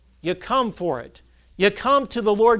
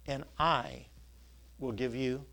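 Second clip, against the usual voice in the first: hushed; 7 semitones lower, 12 dB quieter than usual. Acted. Quoting Jesus's tender invitation.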